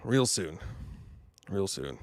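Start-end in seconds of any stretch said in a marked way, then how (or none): 1.5-2.0 lower, softer, British-tinged; lower, quieter mock British; mock British accent. Shown as a demonstration. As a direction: slip into the Nolan voice. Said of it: "I can't stop talking like this now".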